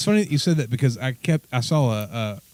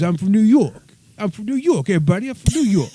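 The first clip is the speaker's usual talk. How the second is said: high-pitched mock New Yorker; brash New York boast, pitched high; Daniel; 9 semitones higher than usual. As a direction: insist on it in a raised mimicking voice. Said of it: "everything he did was".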